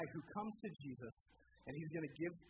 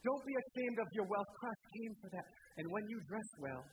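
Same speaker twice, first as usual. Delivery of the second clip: put-on sing-song southern accent selling wealth; 4 semitones higher than usual. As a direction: ham up a southern prosperity preacher. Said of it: "I'm gonna try to use my southern accent".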